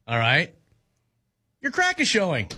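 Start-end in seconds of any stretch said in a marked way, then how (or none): 1.6-2.5 higher, congratulatory lilt; supportive. Shown as a demonstration. Host attempting the supportive take for co-host, supportive. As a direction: say it like congratulating someone. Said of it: "say it in a supportive tone".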